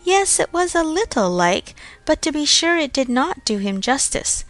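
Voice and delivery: high, detached voice of a lukewarm sister; damn the portrait with faint praise, up high; a lightly mimicked sister's cool, lukewarm praise; cold approbation. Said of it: "came poor dear Isabella's cold approbation".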